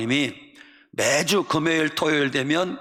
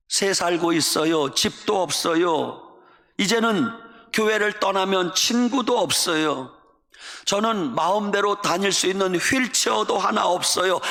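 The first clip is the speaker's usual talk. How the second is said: sulky complaint; 4 semitones higher than usual. Retold or imitated. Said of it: "볼멘 소리로 기도했어요".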